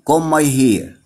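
comb said as "kohm" with no b sound; silent b in comb. Shown as a demonstration. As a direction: drop the b: "kohm my hair". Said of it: "البي ما بتنطقش". (comb من غير نطق حرف B)

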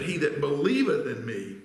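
"believeth" made prominent, falling at the end; stress on BELIEVETH. Shown as a demonstration. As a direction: contrast "believeth" with emphatic weight. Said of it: "not he that know about me".

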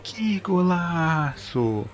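rising yell of a goal call; explosive goal commentary. Real, not acted. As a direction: shout the goal like a TV narrator. Live goal in football game. (narração de gol explosiva)

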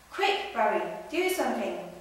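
loud, urgent plea; urgent cry. Acted. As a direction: beg for help in a panic. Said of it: "cried a fish".

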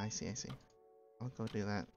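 ordinary talk

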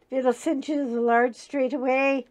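mother's warning. Retold or imitated. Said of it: "My mother in heaven is going".

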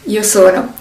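"io sono" with a crisp rolled Italian r; Italian demo. Shown as a demonstration. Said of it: "First person, I am".

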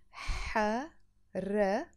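drawn-out slow حركة; teacher modelling حركة slowly; slow model word. Shown as a demonstration. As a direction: stretch حركة slowly, syllable by syllable. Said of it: "حركة means movement".

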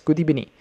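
"good evening" said as "goodee-benin"; coach's mispronunciation. Retold or imitated. Quoting the football coach, "good evening" mispronounced as "goodee-benin". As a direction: imitate an accented "good evening", v turned to b. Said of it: "Something like that".

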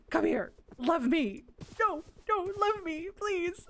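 high, begging coo to the bug; high pleading. Real, not acted. She begs the ladybug to love her in a high pleading coo. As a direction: plead with it sweetly, almost whining.

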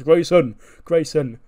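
shouting a name down the hallway; calling out loud. Retold or imitated. Corbin storming the hallway, shouting for Waller. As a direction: bellow the name, hunting for him.

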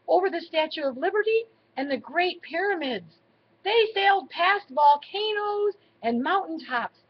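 animated bedtime-story reading; story narration to children. A narrator's reading. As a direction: read the adventure aloud for small children. Reads a story to grandchildren.

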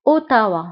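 أوتاوا as French o-ta-wa, falling end; French-style أوتاوا, short syllables; French pronunciation. Shown as a demonstration. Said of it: "وبالفرنسية أيضًا".

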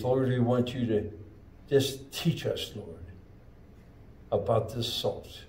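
prayer voice fading to near silence at "In Jesus' name". Acted. Leads a closing prayer.

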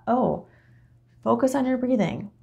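airy send-up of a guided meditation; mock meditation guide. Mocking a passive meditation instruction.

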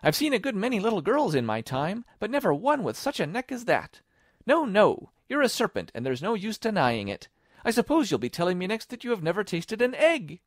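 high, loud bird voice; high-pitched disbelieving tirade; scornful pigeon. A narrator's reading. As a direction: argue scornfully as an irate pigeon.

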